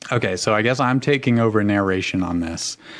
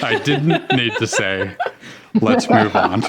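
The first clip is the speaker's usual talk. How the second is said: laughing. Real, not acted. Narrator laughing at own note.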